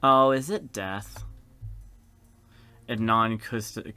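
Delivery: plain reading voice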